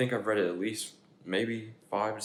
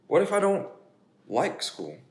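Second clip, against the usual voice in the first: higher, louder anxious pigeon; worried pigeon; 7 semitones higher, 5 dB louder than usual. Acted. Pigeon worries to the children about school, higher.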